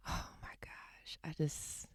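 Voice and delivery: hushed, slow, breathy awe; overwhelmed whisper. Real, not acted. Proud sister lost for words, overwhelmed whisper. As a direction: whisper it, overcome with happiness.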